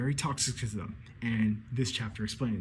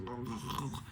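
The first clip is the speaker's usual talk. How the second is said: groaning; 10 dB quieter than usual. Retold or imitated. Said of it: "foaming at the mouth".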